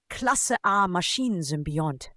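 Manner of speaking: slow, measured proclamation; deliberate official announcement; announcing. A narrator's reading. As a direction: announce the verdict slowly. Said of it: "verkündete Doktor Hartmann".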